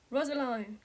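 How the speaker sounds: a breathless, frightened call of her name; a father gasping as he rushes to her; gasped name. A narrator's reading. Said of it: "he gasped".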